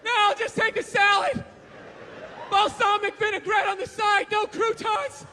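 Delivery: high, loud strained refusal. Retold or imitated. Dieter turning down cake, high strained voice. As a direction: refuse the cake through gritted teeth. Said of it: "You know".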